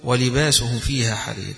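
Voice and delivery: melodic recitation, leaning on يحلون; Quran recitation. Acted. Teacher recites the full verse to his class, melodic and measured.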